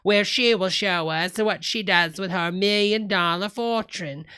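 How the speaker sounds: lightly put-on accent of a TV host; hint of a showy celebrity-show accent. Streamer mimicking a host of a show about the richest people, put-on accent. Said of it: "I've lost the accent".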